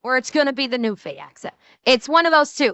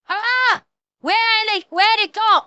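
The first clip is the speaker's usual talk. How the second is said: high-pitched blinded soldier; hammed-up high cry of confusion; mock panic; 8 semitones higher, 3 dB louder than usual. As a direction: play at sudden panicked disorientation. Acts out suddenly blinded German soldiers.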